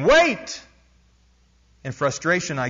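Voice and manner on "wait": much higher, louder cry; screaming back. A narrator's reading. Crowd screaming at the missionary to stop, desperate shout. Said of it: "The people screamed back at me again".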